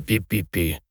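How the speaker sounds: quiet squeaky mouse peeps; mouse squeak. Acted. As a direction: peep it softly like a tiny mouse. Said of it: "запищал мышонок".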